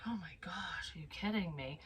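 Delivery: under the breath, in mock disbelief; hushed disbelief. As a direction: drop to a near-whisper, imitating stunned dismay. Acting out dismay as pain returned.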